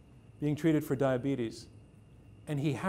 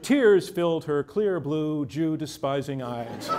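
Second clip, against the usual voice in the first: smooth TV news read; mock report delivery; newsman voice; 5 dB louder, slower than usual. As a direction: read it like an evening news anchor. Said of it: "in my newsman voice".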